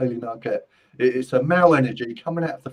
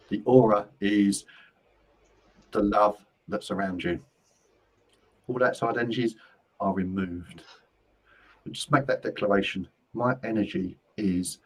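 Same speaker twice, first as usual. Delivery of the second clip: guided closing meditation; 3 semitones lower than usual. Real, not acted. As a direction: lead them calmly through the declaration, unhurried. Leads a closing energy ritual.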